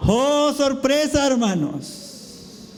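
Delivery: drawn-out high oh of mock surprise; hammed-up surprise. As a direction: play up the surprise, stretching it slowly. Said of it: "repeats with stronger surprise".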